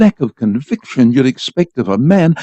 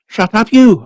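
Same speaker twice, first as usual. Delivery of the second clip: bawled; 7 semitones higher, 3 dB louder than usual. A narrator's reading. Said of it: "I bawled".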